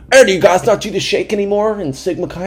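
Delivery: high-pitched mock alum voice; pestering old alum. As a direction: imitate a pushy fraternity alum.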